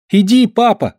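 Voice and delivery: high shouted call to his father. A narrator's reading. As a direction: call back over your shoulder. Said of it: "крикнул он". (громкий высокий оклик)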